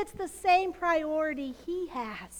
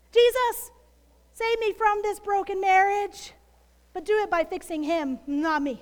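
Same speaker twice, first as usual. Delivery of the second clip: mock bargaining prayer; 5 dB louder than usual.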